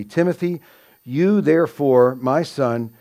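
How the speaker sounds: single out "Timothy" and "you"; emphasis on Timothy. Retold or imitated. Teacher quotes Paul charging Timothy, stressed "Timothy" and "you". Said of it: "he's putting emphasis to Timothy".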